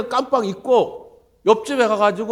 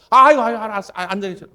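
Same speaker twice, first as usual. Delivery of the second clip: hasty giving in; 3 semitones higher, 7 dB louder than usual. Retold or imitated. Grandfather stops pastor from leaving.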